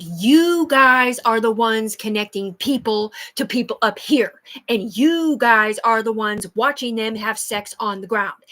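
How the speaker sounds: slow accusation. Real, not acted. Accusing the people watching her, slow and loud. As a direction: spell out the blame word by word.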